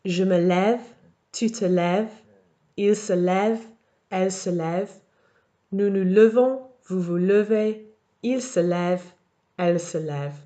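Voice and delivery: lève with an open è, levons and levez with a light e; model conjugation. Shown as a demonstration. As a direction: read out each form as the answer. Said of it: "it should sound something like this".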